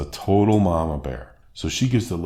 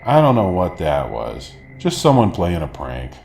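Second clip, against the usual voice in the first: dismissive mom; 5 dB louder than usual. Retold or imitated. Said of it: "vaguely remember it and goes".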